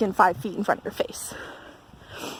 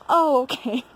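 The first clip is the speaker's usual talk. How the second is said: imitated sudden understanding; 4 semitones higher, 4 dB louder, slower than usual. Acting out man finally understanding.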